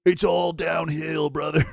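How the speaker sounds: drawn-out imitation of a twelve-year-old, starting high; mock brain-rotted kid. Streamer mimicking twelve-year-olds on old age, mock kid voice. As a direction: mimic a dismissive preteen, stretching the words. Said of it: "twelve-year-olds out here have been so brain rotted".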